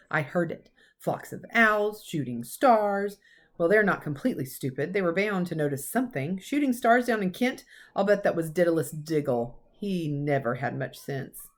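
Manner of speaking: lightly voiced stern old professor, cross; a hint of a brisk Scottish teacher scolding; McGonagall. Professor scolding Dumbledore about careless celebrating, lightly stern.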